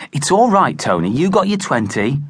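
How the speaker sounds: soothing. A narrator's reading. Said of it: "said Sandra Rumsey".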